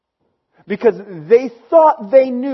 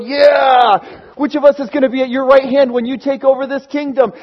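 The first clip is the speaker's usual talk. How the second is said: higher and louder, a cheering yeah; eager excited disciples; 4 semitones higher, 4 dB louder than usual. Retold or imitated. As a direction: hype up the triumphal entry. Excited disciples on Palm Sunday.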